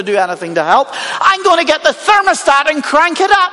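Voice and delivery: acted exasperated tirade, pitch jumping up; exploding Lazarus. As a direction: let pent-up grievance burst out, lightly acted. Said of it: "Lazarus might explode at this point".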